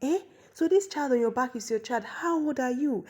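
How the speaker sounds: high, incredulous questioning; shocked. Retold or imitated. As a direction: retell a shocked queen's questions. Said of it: "the queen was so shocked".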